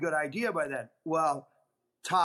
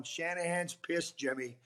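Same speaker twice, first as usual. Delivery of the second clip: softer, slow, mock-ominous warning; deadpan tease; 7 dB quieter than usual. Teasing a rattled friend over text, soft slow deadpan.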